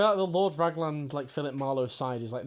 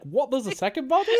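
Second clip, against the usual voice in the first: high, louder baffled what; mock surprise; 8 semitones higher, 5 dB louder than usual. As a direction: act caught off guard, baffled. Players' surprised reaction acted.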